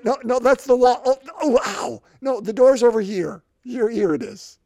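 hammed-up warnings at the door; Jesus steering blind men. Jesus steers the blind men away from the wall, comic. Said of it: "when he got to the house".

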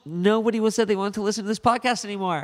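scary voice. Pretend. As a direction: try to spook him. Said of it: "Someone needs to scare Josh".

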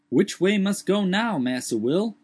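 high put-on dialect voice, startled; Jupiter's voice. A narrator's reading. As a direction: lift the voice high and protest. Jupiter calls from the tree.

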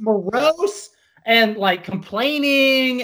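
slow, drawn-out mock complaining; mock moping. Mimicking a singer's gloomy whining.

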